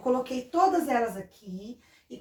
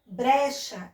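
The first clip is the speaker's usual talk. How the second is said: "Brecha" slowly, stretching BRE; "BRE-cha", drawn out; strong syllable shown. Shown as a demonstration. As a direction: sound out "Brecha" with weight on BRE. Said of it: "a sílaba mais forte".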